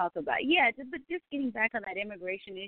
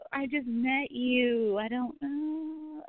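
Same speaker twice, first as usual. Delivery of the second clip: slow awkward reply; 4 semitones higher, much slower than usual. Retold or imitated. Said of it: "it's awkward 'cause it's like".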